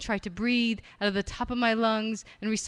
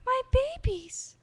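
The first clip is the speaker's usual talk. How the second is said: very high, slow cry of a fussing mom; mother voice. Shown as a demonstration. Mom crying over her kids, high mother voice. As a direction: wail it like a doting mother. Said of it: "The mother".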